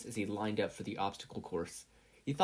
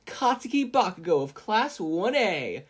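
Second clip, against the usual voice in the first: higher, louder, slow stage announcement; Midnight announcing; 8 semitones higher, 6 dB louder than usual. A narrator's reading. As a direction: present the speaker grandly. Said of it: "Midnight announced".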